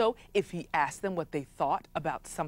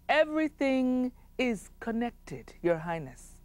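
solemn wise man; 5 semitones higher, 3 dB quieter than usual. Acted. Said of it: "that wise man said".

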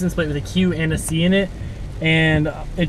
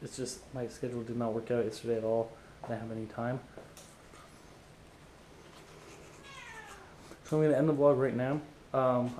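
while brushing teeth; 2 semitones lower, 12 dB quieter than usual. Real, not acted. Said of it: "I'm brushing my teeth".

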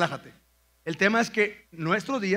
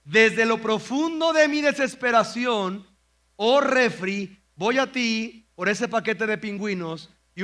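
mock psalm parody. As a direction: ham up the despairing snacker. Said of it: "Si esto fuera escrito por ti y por mí". (parodia del salmo, lamento exagerado y lento al refri)

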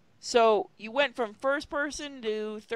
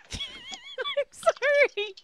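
very high, very slow drawn-out "sorry"; long high squeaked apology; squeaky apology; much slower than usual. Acted. Apologising after laughing.

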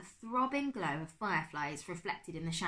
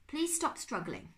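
higher, slow, insistent request; urging plea; 7 semitones higher, slower than usual. A narrator's reading. Virginia urges the trapped professor, pleading. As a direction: urge him to keep still.

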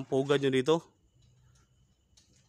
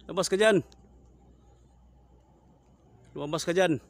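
loud, higher call into the dark; challenging shout; 5 semitones higher, 6 dB louder than usual. Real, not acted. Ghost hunter shouting at the aswang to come out. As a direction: order the creature out.

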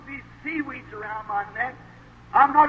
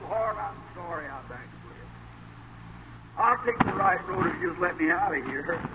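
hushed prayer; 8 semitones lower, 10 dB quieter than usual. Retold or imitated. Jonah's prayer voiced on his knees.

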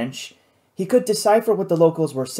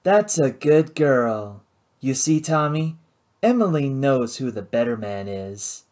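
arrogant and smug. Acted. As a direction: savor the win over Tommy. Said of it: "thin, arrogant smile".

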